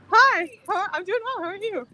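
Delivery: high, bright hello to a friend; excited greeting. Real, not acted. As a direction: greet her with delight.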